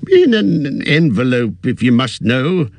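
put-on a mild impatient old hobbit. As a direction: brush the question off with irritation. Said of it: "said Bilbo impatiently".

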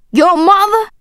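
loud, high, rising scornful question; angry incredulity. A narrator's reading. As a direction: throw it back in disbelief. Father mocks her claim, face red.

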